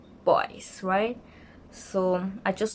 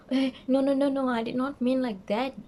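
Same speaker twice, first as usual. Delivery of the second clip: higher-pitched mock protest; hasty backpedalling; 5 semitones higher than usual. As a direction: imitate someone hurriedly taking it back. Retelling his hasty backpedalling.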